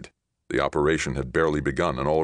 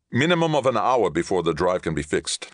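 high, louder status report; tense captain; 5 semitones higher, 4 dB louder than usual. Acted. Captain gives Ray the drive status, tense. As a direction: report briskly under pressure.

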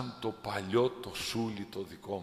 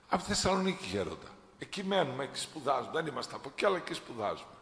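lightly voiced students; 4 semitones higher, much faster than usual. Students voiced answering elder.

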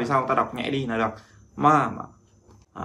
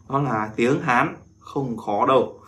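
slow, careful delivery; slower than usual. Shown as a demonstration. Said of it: "bí mật mình muốn bật mí".

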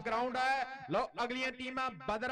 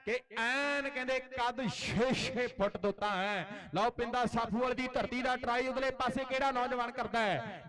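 rapid, excited play-by-play call; frantic rural sports commentary. Real, not acted. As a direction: call the raid live to the crowd. Live kabaddi commentary.

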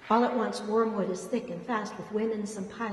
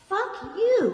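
high, very loud yell; furious shout; 12 semitones higher, 9 dB louder than usual. A narrator's reading. Pat yells at Ellen for siding against her, furious shout. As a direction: blast it at the traitor. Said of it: "Pat shouts".

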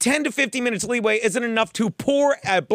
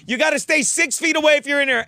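mock yell; 5 semitones higher than usual. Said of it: "He's like".

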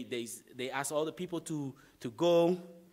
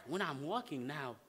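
normal talking voice

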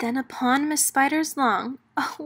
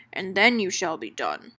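scheming; 4 semitones lower than usual. Acted. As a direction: lure them in like a crook. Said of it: "Skid Skipper schemed".

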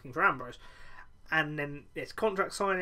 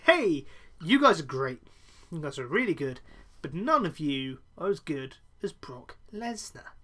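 Paul Heyman impression. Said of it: "Paul Heyman comes out and he does his usual thing".

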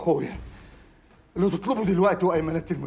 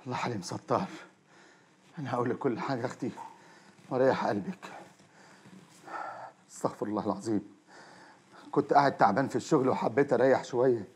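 soft, lower, soothing lie; calm his wife with a false story; feigned calm; 6 semitones lower, 6 dB quieter than usual. Acted. (هدوء مصطنع وصوت خافت)

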